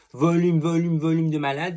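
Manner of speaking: high, loud imitation of an advert slogan; mock hyped slogan. High, loud mock sales pitch for the mascara. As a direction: ham up the mascara packaging claim. Reading mascara label with hype.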